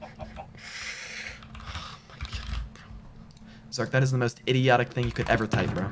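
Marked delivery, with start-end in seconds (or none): 0.0-2.8 breathy, almost silent groan; softer voiced-out sigh of defeat; exasperated sigh. Real, not acted. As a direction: sigh it out, drained. Sighs after another death.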